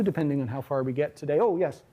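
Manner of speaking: ordinary talk, nothing marked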